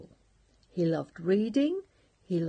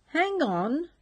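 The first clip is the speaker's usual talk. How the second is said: higher, louder sudden taxi driver; a quick raised call from the driver; 9 semitones higher, 5 dB louder than usual. Acted. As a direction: call out to stop him. Taxi driver voiced in story.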